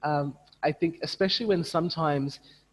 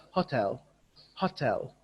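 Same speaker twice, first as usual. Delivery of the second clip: Indonesian stress; 2 semitones lower, 3 dB quieter than usual. Shown as a demonstration. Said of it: "In Bahasa".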